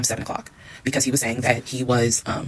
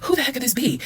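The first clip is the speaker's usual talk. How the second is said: high, baffled question; retelling her own baffled reaction, pitched way up; 11 semitones higher than usual. Retold or imitated. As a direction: ask it in total disbelief. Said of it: "I'm just like".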